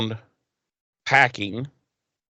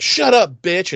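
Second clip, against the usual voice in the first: higher, louder retold snap; mock angry outburst; 7 semitones higher, 5 dB louder, slower than usual. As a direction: act out telling someone off. Acted quarrel, punching her.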